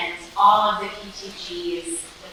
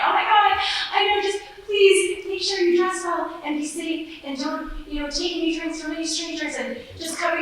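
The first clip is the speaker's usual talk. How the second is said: much higher, louder worried mom voice; freaking out; 12 semitones higher, 3 dB louder than usual. Retold or imitated. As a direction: rattle off warnings like a frantic mother. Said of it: "I'm freaking out because I love her".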